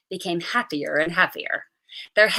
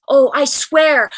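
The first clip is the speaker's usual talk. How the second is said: solemn oath; 5 semitones higher, 8 dB louder, slower than usual. A narrator's reading. Girl swearing an oath to heaven.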